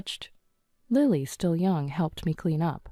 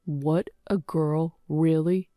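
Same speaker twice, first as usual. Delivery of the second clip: a lightly voiced husband, slow and let down; husband let down by the news of a girl; disappointed husband; slower than usual. Husband hearing of a daughter, mildly disappointed. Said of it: "he was visibly disappointed".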